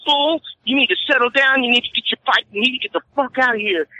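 high, firm commanding voice; stern guard warning. Retold or imitated. Guard ordering the bike guy out, firm commanding voice. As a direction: lay down the law to him. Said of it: "She goes".

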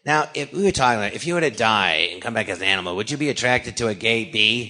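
put-on low voice posing a question; Harvey Fierstein. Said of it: "I really imitate him good".

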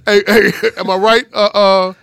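eager guy impression. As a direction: work the room for approval. Imitating guy at the spot.

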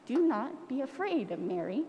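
soft, hushed angel voice; a gentle, hushed heavenly messenger. Acted. Angel Gabriel calming Mary, softly hushed. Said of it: "she heard a voice say".

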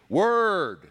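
loud, high one-word shout. Retold or imitated. Megachurch pastor calling to the congregation, loud shout. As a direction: call it out like a pastor firing up the room. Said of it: "he'll just say".

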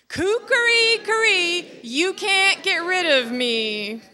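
high, loud crow, drawn out slowly at the end; crying out. A narrator's reading. Rooster at the window, audience joining, crying out. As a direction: crow it for all to join in. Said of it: "cried out".

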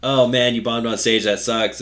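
loud, upbeat fake consolation; mock sympathy. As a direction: cheer him up with loud false pity. Mock sympathy to Grant after bombing.

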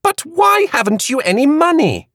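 put-on high, light young woman's voice; Queenie's voice. A narrator's reading. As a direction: Queenie pressing her friend, curious. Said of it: "Queenie had inquired earlier".

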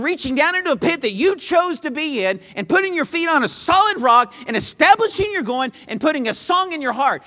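driving, emphatic sermon delivery; impassioned preaching. Real, not acted. Preacher urging believers to grasp their unpayable debt, impassioned. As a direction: preach it with force, pressing each point.

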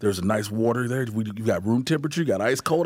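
low, soft, eager-to-please driver; polite chauffeur voice. Retold or imitated. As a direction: fuss over him like a hotel driver.

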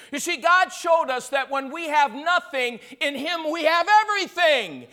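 emphatic sermon with big stressed words; fervent preaching. Real, not acted. Preacher giving the congregation the lesson, rising and forceful. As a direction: drive the lesson home, stretching the final words.

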